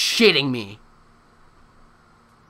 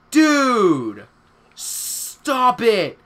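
exasperated yell; 7 semitones higher, 4 dB louder, much slower than usual. Real, not acted. Yelling at game or chat.

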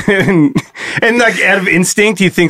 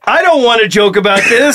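half-shouted protest; 3 semitones higher than usual. Real, not acted. Protesting while laughing.

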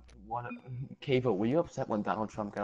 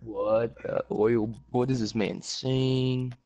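slow, stunned disbelief; much slower than usual. Real, not acted. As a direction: drag it out, baffled. Reacting to a shocking remark.

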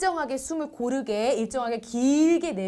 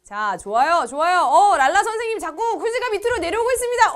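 normal talking voice

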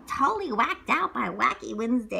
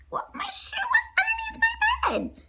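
whisper. Acted. Startled child whispering in story.

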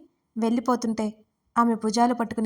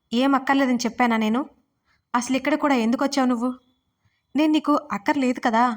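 a mild read-aloud shout, a touch quicker in the middle; shouting nonstop; 2 semitones higher than usual. Acted. Wife mildly shouting at her husband without stopping. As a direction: keep pushing the questions without a break. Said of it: "స్వర ఆపకుండా అరుస్తుంటే".

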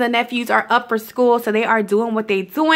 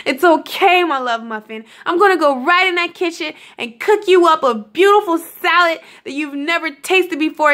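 higher-pitched, playful coaxing of herself; coaxing self-talk; 4 semitones higher than usual. Retold or imitated. Reassuring herself about eating the candy, playfully coaxing. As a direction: sweet-talk yourself in a lifted voice.

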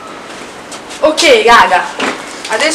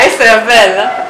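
usual speaking voice

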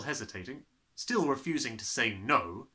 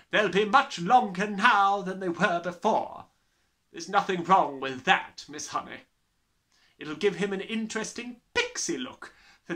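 loud, high, booming tyrant voice; bullying headmistress; 8 semitones higher, 6 dB louder than usual. Acted. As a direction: gloat like a brutal headmistress. Trunchbull's voice held.

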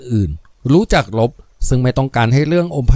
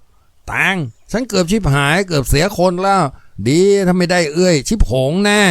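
a hint of relieved Lop; 5 semitones higher than usual. Voices Lop confessing.

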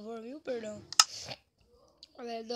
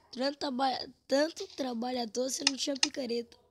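loud, fast grumbling; exasperated complaint; frustrated rant; 7 dB louder, faster than usual. Real, not acted.

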